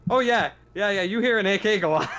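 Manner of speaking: high and loud through laughter; can barely get it out for laughing. Real, not acted. Game master laughing as he tells the player about the gunfire.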